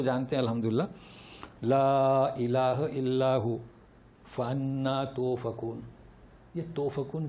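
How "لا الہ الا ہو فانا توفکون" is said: slow, drawn-out chanted recitation; Quranic recitation. Shown as a demonstration. Teacher recites the answer to the class, slow chant. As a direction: intone each word slowly like tilawat.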